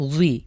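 জুই with a bent, curved J, not a straight জ; জুই said with a curved, Arabic-style z; curved zu sound. Shown as a demonstration. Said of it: "একটু বাঁকা করে আমরা পড়ব".

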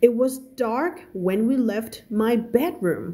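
slow, careful read-aloud of a novel; story reading. Acted. Teacher reading a story to her students, slow and careful.

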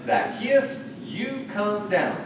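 high, drawn-out call up to the tree. Shown as a demonstration. Jesus calling Zacchaeus down from the tree, high. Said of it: "and he said".

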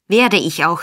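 a mild acted shout. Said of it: "schrie der Jude".

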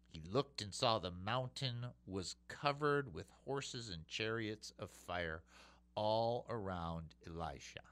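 quiet reverent retelling of the mountain scene; soft reading. Acted. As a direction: hush the verse for awe. Quiet reread of scripture.

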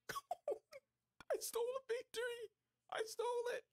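very high, laughing victory squeal; gleeful squeal. Acted. Stealing a wrestling victory, squealing with laughing glee. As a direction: squeal with glee at the stolen win.

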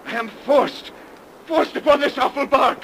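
loud, high, desperate begging; desperate pleading. Acted. Captain begging the priest and messenger for pity, desperate. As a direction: plead for your life in terror.

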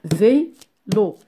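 Vélo split into vé and lo; syllable by syllable. Shown as a demonstration. Teacher shows two syllables, Vélo broken in two. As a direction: pause between the two beats of Vélo. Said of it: "On a deux syllabes".

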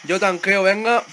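loud, high battle cry; excited call-out. Real, not acted. Gamer offering to tank for the team, excited. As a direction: shout it to the team mid-fight. Calls out to team mid-fight.

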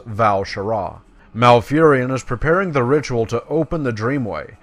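formal, emphatic briefing from a druid elder; dramatic game dialogue reading; quest-giver read-aloud. Acted. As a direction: lay out the mission like a quest giver. Reads quest text aloud.

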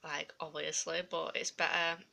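swollen-tongue lisp. Real, not acted. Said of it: "I have a lisp".

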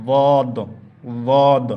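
বদ said loud and heavy, not like দাঁত; firm teacher model of বদ; correct dad demo. Shown as a demonstration. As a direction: stress the proper বদ sound for students. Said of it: "এটা উচ্চারণ অনেকে দাঁত বলে, তবে উচ্চারণটা ঠিক নয়".

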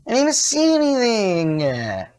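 rapid indignant protest; outraged yell. Real, not acted. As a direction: scream at the game in real rage. Killed by unseen jump scare.

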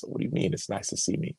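softly retold puzzled question; perplexed. Player perplexed by his friend's greeting, softly puzzled. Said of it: "this perplexed look on my face".

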